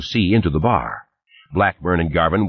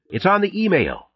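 shouted; 13 semitones higher than usual. A narrator's reading. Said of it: "somebody shouted".

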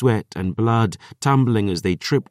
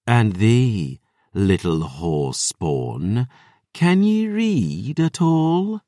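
mocking vampire voice; 2 semitones higher, much slower than usual. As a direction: belittle the girl. Lily mocks Dior.

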